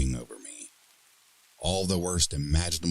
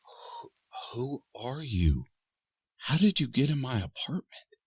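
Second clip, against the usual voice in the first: frightened; 10 semitones higher, 3 dB quieter than usual. Acted. Frightened woman questions demon.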